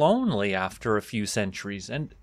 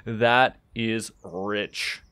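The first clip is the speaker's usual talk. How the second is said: amused scoff; 3 semitones lower, much slower than usual. Acted. Scoffs at troll accusation.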